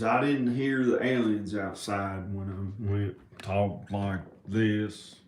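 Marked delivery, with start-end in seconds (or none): 3.4-5.2 slow country accent. Shown as a demonstration. Vlogger trying out accents he hears, country accent. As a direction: talk with a slow country twang. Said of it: "There's two or three different country accents".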